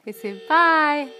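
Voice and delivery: slow drawn-out bye; slow teaching bye; coaxing bye. Shown as a demonstration. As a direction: stretch bye for the baby. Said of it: "say hi".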